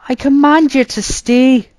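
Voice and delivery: high, loud shout after him; shouted command. A narrator's reading. Arthur shouts at his brother heading into the forest. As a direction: order him back with all your voice. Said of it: "I shouted".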